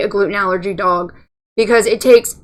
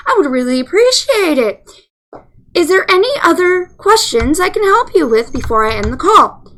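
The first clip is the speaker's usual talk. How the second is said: scripted closing spiel; 3 semitones higher than usual. Retold or imitated. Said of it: "I'm going into my spill".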